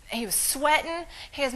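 ordinary delivery

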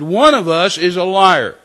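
displeased voice. Retold or imitated. The Lord repeating to the startled driver, displeased. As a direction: imitate the Lord sternly driving it home. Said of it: "in a voice that wasn't very happy".

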